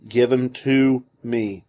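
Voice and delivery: "Given to me" read slowly, word by word; emphasized. A narrator's reading. Reader singles out the emphasized Greek words, slow and emphatic. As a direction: weigh each word of "Given to me". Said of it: "those emphasized words are".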